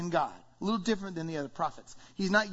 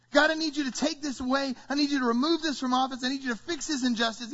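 higher, urgent petition; pleading prayer; 5 semitones higher, faster than usual. Acted. Preacher voices people asking God for change, urgent pleading. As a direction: pile up requests insistently.

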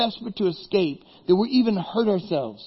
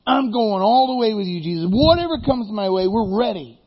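excited Peter; 3 semitones higher than usual. Acted. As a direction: promise Jesus everything, full of zeal. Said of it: "He is so excited".

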